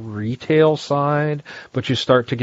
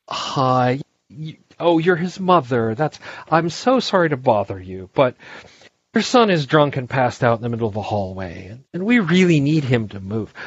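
customer service voice. Retold or imitated. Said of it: "I use that voice".

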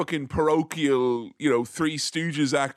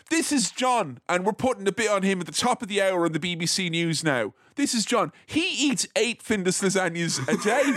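news presenter impression; 4 semitones higher than usual. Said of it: "they'd be like".

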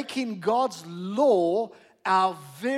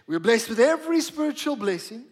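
"every" picked out with clear emphasis; stress on every. Shown as a demonstration. Preacher drilling a key word into the congregation, stress on "every". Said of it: "I want to emphasize the word every".

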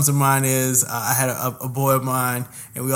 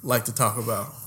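teasing drawl; 3 semitones lower, 5 dB quieter than usual. Acted. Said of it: "Why did he say it like that?".

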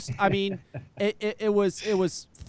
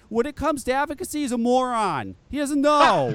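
heated rant; 5 semitones higher, 3 dB louder than usual. Real, not acted. Ranting about Pete's critics.

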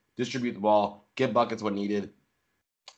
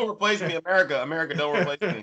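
laughing mock plea; 8 semitones higher, faster than usual.

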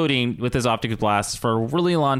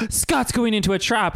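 gasp, then higher-pitched alarm; mock surprise; 11 semitones higher than usual. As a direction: act out a shocked realization. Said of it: "even Emma's surprised".

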